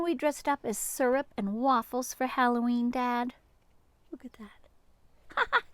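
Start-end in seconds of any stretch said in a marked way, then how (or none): 4.1-5.6 slow hushed whisper. Acted. Reader pointing at the picture, slow whisper. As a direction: breathe it out in slow wonder. Reading picture book aloud.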